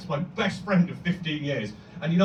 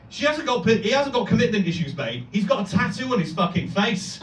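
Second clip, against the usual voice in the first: sassy friend; 5 semitones higher than usual. Retold or imitated. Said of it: "He went, she went".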